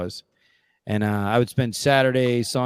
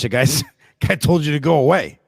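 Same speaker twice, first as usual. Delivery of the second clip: louder, higher retort broken by a laugh; laughing protest; 5 semitones higher, 6 dB louder than usual. Retold or imitated. Son telling dad he was turned away, laughing protest. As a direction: laugh through an incredulous objection.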